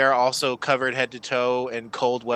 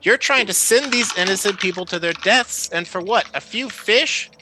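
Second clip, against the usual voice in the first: indignant; 7 semitones higher than usual. Acted. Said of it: "pull down their... scarf".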